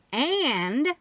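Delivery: loud And to block the aunt from speaking; too loud. A narrator's reading. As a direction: cut her off with a loud And. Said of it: "I said too loudly".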